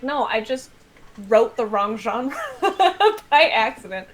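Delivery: laughing through the end, slowing on wrote the wrong genre; sheepish self-mocking answer with a laugh; laughing reply. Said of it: "I'm like".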